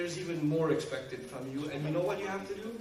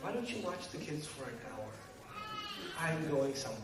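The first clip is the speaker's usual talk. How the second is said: sarcastic; 6 dB quieter than usual. Retold or imitated. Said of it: "And then you say".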